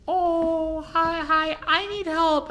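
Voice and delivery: put-on high-pitched old lady voice, held steady; old lady customer. Old lady asks a store worker for help, high old lady voice.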